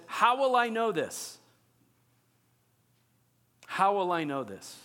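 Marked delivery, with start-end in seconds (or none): 0.0-1.4 doubting question. Shown as a demonstration. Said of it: "He says".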